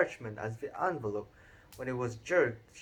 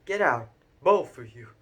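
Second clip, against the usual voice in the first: croaked; 7 dB louder than usual. A narrator's reading. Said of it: "croaked Uncle Vernon".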